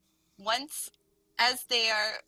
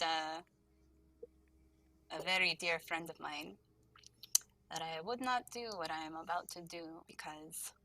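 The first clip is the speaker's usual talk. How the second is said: soft, sorrowful confession fading to almost nothing; sad farewell; 4 dB quieter than usual. Acted. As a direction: let the regret sink the voice quieter and quieter. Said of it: "just kinda looks really sad and says".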